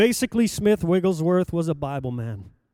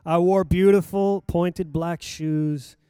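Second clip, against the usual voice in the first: ordinary delivery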